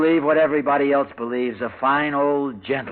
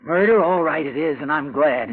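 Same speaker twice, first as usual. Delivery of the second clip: loud, higher, defiant outburst; 4 semitones higher, 4 dB louder than usual. Acted. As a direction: throw it back at her, defiant. Tense quarrel with wife.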